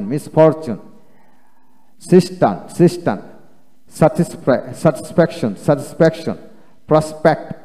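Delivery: "ডিসঅনেস্ট" with a dental s ending "ডিস"; dental S in syllables. Shown as a demonstration. Teacher modelling syllable-final S for learners, "রেসপেক্ট" said with dental s. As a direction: model words like "জাস্টিফাই" twice each, s closing the syllable. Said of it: "এরূপ অর্থ উচ্চারিত হয়".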